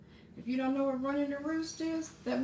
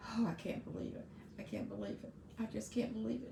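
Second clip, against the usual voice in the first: stunned disbelief; 6 dB quieter, faster than usual. Retold or imitated. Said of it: "I was just like".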